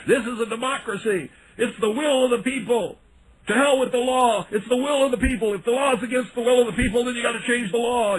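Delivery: high-pitched imitation of a ranting protester, pitch way up; mock yelling protester. Radio host mocking a protester who yells for the camera, pitched high and hammed-up. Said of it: "so he's just yelling".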